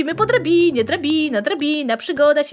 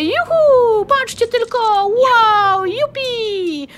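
cheering; 6 semitones higher, much slower than usual. Pretend. Celebrating flight in game.

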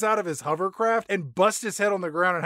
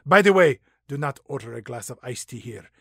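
put-on Latin accent; 3 semitones lower than usual. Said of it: "my sexy Latin accent".

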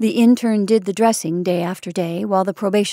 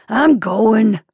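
louder, mildly whimpered protest; whimpering; 2 semitones higher, 6 dB louder than usual. A narrator's reading. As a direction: give in with a touch of whimper. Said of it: "whimpered old Maggie".

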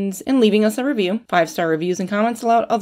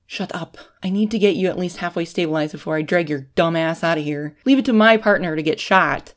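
barked. Acted. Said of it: "she barked".

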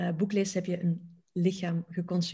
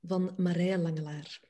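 measured poem recitation with long pauses; poetry reading. Acted. Reciting Marija Langelaar's poem about becoming a chair, measured poetry reading. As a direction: read it line by line, letting each image stand.

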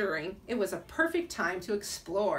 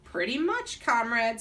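put-on Russian accent; 3 dB louder than usual. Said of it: "said the Nutcracker".

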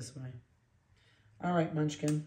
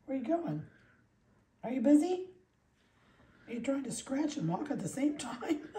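much higher cooing voice; playful puppy talk; 9 semitones higher than usual. Real, not acted. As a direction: coo a teasing question at the puppy. Teasing baby talk to puppy.

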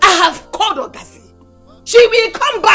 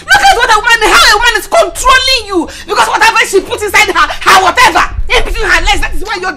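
raised, indignant tirade; berating rant; 4 semitones higher than usual. Acted. Mother berates son for being controlled by a woman, angry rant. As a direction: scold him with disgust, pitch riding high.

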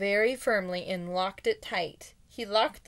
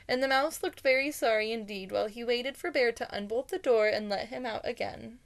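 animated storybook narration, lifted pitch; story read-aloud; 3 semitones higher than usual. A narrator's reading. Reader tells a mouse and bear story to listeners, animated storytelling. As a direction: read it out expressively, like a picture book.

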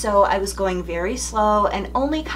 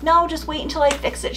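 retold own plea; 8 semitones higher, faster than usual. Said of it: "And I'm like".

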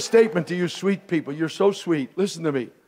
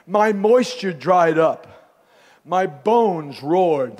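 heavy conviction; 2 semitones lower, much slower than usual. Retold or imitated. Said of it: "sounding from a guy who's talking under heavy conviction".

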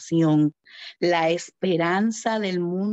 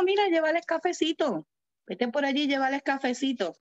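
playful divine instruction; 6 semitones higher than usual. Acted. God's humble command voiced.

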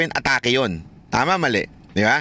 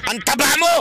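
higher, mock-insulting jab; 9 semitones higher than usual. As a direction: fling a pretend insult at a friend. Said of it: "Sabihin ko sa kanya".

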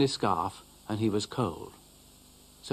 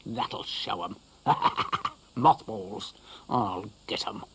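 chuckling, muttered vengeful glee; dog gloats over mothballs; gleeful scheming; slower than usual. Acted. Dougal gloating about moths.

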